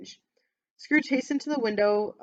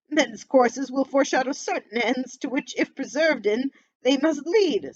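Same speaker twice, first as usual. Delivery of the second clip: put-on louder, pleading old miser; anxious Scrooge; 4 semitones higher, 4 dB louder than usual. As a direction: beg the spirit nervously.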